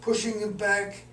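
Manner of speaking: deliberate recital, phrase by phrase; poem reading. Acted. Poet reads another recent poem, deliberate recital. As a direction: start each phrase firmly, let its end settle.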